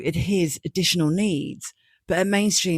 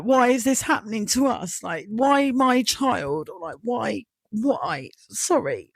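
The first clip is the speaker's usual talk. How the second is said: real distress breaking through, higher; getting upset; 5 semitones higher, slower than usual. Real, not acted. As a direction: voice rising, close to tears. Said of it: "Oh God, I'm getting upset now".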